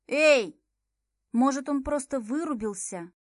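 a loud, startled "Эй!" then an urgent question; sharp shout. Acted. Heroine shouting to wake Milo, loud and urgent. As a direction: jolt him awake with your voice.

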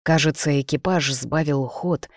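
plain reading voice

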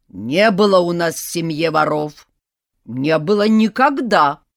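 loud hammed-up wailing old woman; granny bewailing a thief in family; wailing lament. A narrator's reading. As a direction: lament dramatically. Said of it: "причитала бабка".

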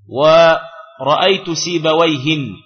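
سيبويهن said slowly, ending in -in; slow teaching voice, سيبويهن with nunation; slow tanween demo. Shown as a demonstration. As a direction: draw out ورأيت سيبويهن, stressing the nun at the end. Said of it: "بالتنوين".

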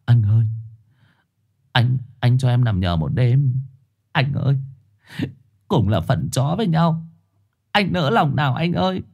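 lightly voiced pleading young dog; a hint of a humble stray begging. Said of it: "Trùn ngước đôi mắt chó khẩn khoản".

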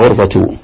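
غرفة as "ghurfatu"; damma on final ta. Shown as a demonstration. Teacher challenging the student, damma ending on غرفة, "ghurfatu". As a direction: close غرفة on -tu. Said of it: "لماذا ضم التاء المربوطة".

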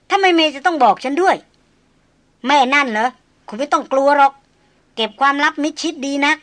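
a lady brushing off the hunter, tart and proud; sharp young noblewoman. Acted. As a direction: snap back as the haughty young lady. Lady sneers about May.

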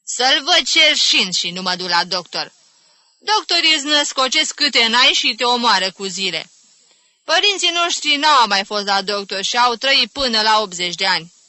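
loud, vehement denunciation; indignant tirade. Acted. Aunt refusing ever to see a doctor, indignant. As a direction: rail against doctors. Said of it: "sări tanti Caterina".

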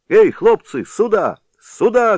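high, loud summoning call. A narrator's reading. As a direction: yell to gather the lads. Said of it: "кричал он". (Левко громко зовёт парубков)

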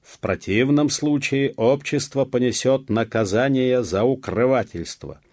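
high, loud proclamation; loud official warning. A narrator's reading. Police chief warns the villagers of punishment, loud and official. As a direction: ring out the threat like a formal decree. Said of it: "громко и раздельно произнёс исправник".

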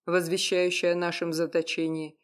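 usual speaking voice

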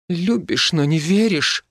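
high, teary squeak of a hurt wife; tearful high squeak. A narrator's reading. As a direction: squeak it out with tears in the voice. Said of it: "со слезами в голосе пискнула".

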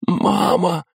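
высоко, с надрывом; в ужасе позвать мать; испуганный зов. A narrator's reading. Сын в ужасе зовёт мать. (горящий сын в ужасе зовёт мать)

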